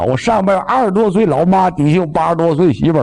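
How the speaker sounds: panicked, words tumbling out wrong; flustered mix-up. Acted. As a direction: blurt it out scrambled in fear. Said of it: "说反本了".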